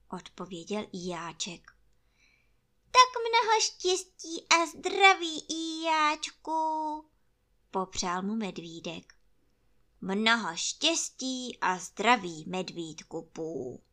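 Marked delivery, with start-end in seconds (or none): 2.8-7.0 high, bright-hearted wish from the bear; cheerful bear greeting. Acted. Pú gratuliert hoch. 10.0-13.8 gloomy donkey wishes. Acted. Ijáček gratuliert mürrisch.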